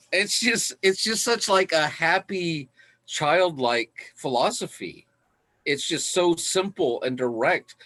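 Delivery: giddy real delight. Real, not acted. Delight over simple philosophy.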